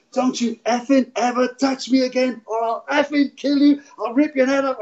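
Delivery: high-pitched threat, reenacting his own rage; retold angry shouting. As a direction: act out losing it, pitched well up. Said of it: "all I kept shouting at him".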